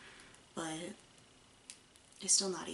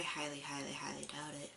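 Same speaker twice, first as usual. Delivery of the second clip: whispering; 4 semitones lower, 7 dB quieter than usual. Real, not acted. Doubting ex-friend will watch.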